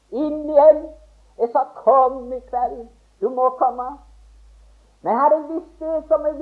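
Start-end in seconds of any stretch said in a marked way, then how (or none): 1.8-3.9 slow, soft pleading invitation; gentle plea. Retold or imitated. Preacher retelling his plea to friend Per, slow and soft. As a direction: plead with him tenderly, slowly.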